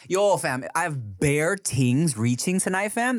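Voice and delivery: slow, put-on Toronto slang accent. Shown as a demonstration. Giving an example of slang to a friend, Toronto accent. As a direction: draw it out like a Toronto local. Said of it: "you've never heard this accent?".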